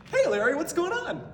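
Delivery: big hearty shout of hey larry; loud mock greeting. Random guy greeting Larry on the phone, loud hearty mock call. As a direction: hail a buddy loudly.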